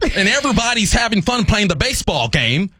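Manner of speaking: hammed-up retelling. Hamming up his own slurred line.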